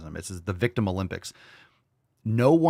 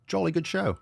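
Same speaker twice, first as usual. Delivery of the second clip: higher, hammed-up British toff; mock posh British accent; 8 semitones higher than usual. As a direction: play a very proper British gentleman. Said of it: "say something intelligent with that accent".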